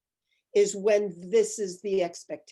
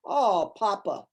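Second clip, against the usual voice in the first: long falling "oh", mock sympathy; patronizing; 4 dB louder, slower than usual. Busboy talking down to older man, patronizing. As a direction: mimic a condescending busboy. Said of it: "the busboy was so patronizing".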